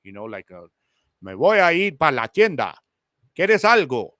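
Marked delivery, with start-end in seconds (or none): 1.2-4.1 stiff, textbook-correct Spanish with every word careful; Spanish said too properly, like a script; proper, clear Spanish. Shown as a demonstration. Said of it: "very proper and clear Spanish".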